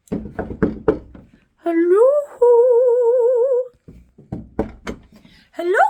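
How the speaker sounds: singsong hello rising at the end; drawn-out, lilting phone greeting; playful phone hello. Pretend. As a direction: pick up the pretend phone with a loud singsong lift. Answering a pretend phone call.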